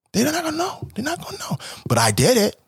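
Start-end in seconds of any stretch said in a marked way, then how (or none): 0.9-1.6 softer repeat. Real, not acted.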